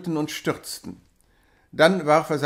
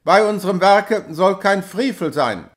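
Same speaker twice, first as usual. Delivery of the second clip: louder, raised stern order; angry command; 4 semitones higher, 6 dB louder than usual. A narrator's reading. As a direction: demand the dog with authority. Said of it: "schrie Hauke wieder". (zorniger Befehl)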